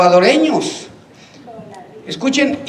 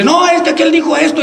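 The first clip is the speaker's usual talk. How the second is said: high, quick tattling; hammed-up rumour-spreader; imitated gossip; 8 semitones higher, faster than usual. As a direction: blurt it out like a tattletale, acted. Gossip voiced, stirring trouble.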